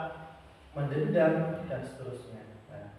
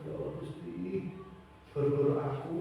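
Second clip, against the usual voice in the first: put-on remorseful child; 8 dB quieter than usual. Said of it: "Dia merasa bersalah".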